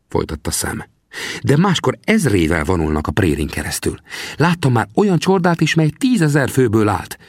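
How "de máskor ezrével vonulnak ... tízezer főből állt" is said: higher, teasing frontiersman; old trapper questions the young man. Acted. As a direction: play the grizzled scout, needling the greenhorn. Sam explains.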